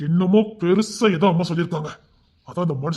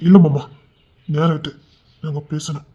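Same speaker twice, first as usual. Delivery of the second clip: firm refusal; 4 dB louder than usual. Acted. Refusing father-in-law firmly.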